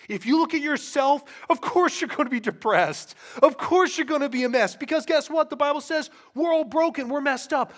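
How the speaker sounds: loud, high, driving pulpit delivery; impassioned preaching. Real, not acted. Preacher telling congregation why self-focus brings depression, impassioned. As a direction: hammer each phrase home from the pulpit.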